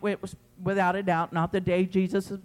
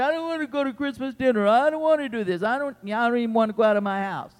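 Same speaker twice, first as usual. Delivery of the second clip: mock whining, a touch faster; whiny self-pity; 3 semitones higher, faster than usual. To the congregation, a mock whiny excuse. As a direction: mimic a sulky stay-at-home. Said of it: "you say".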